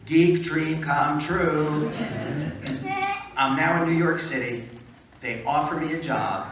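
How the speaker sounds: loud, slow, thrilled; breathless excitement. Real, not acted. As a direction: savor the dream coming true. Thrilled retelling of dream job.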